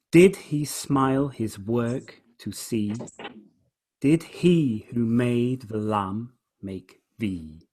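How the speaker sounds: slow, measured poem recital; deliberate poetry reading with spaced words; verse reading. Shown as a demonstration. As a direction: read it aloud slowly, weighting each beat. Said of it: "I'll just read the last two lines".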